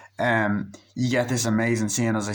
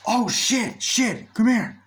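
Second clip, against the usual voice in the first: mock panic; 12 semitones higher, 4 dB louder, slower than usual. Friend panicking.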